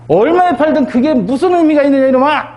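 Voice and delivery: father scolds his son for selling land, half-acted angry shout; mock scolding. Son sells father's land, father scolds in mock anger. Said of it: "호통을 칠 수도 있는 거 아니에요".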